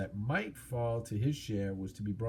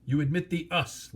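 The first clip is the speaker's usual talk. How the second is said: mocking dragon; 5 semitones higher than usual. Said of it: "laughed Smaug".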